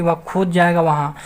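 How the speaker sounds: mild stress on खुद; emphatic stress. Shown as a demonstration. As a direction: lean a little on खुद. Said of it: "जोर दे के बोला जाता है".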